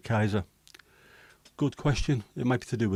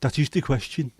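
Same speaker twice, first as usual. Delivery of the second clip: Brummie Shakespeare; 4 semitones higher, 3 dB louder than usual. Pretend. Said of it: "doesn't make any sense with a Brummie accent".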